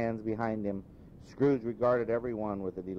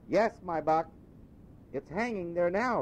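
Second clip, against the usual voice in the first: a lad amazed anyone would ask; young boy; 9 semitones higher than usual. Acted. Boy telling Scrooge it's Christmas, puzzled. Boy's voice.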